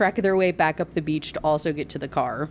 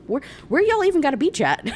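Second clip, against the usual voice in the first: laughing; 8 semitones higher, 3 dB louder than usual. Real, not acted. Mocking the plot.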